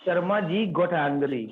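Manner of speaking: slow model sentence. Shown as a demonstration. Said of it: "क्या बोलेंगे?".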